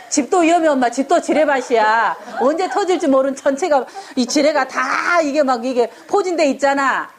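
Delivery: put-on a touch of a whiny child with a laugh; child complaining. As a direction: play the kid protesting home is a minefield, only a hint. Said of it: "아이가 이렇게 얘기할 수 있죠".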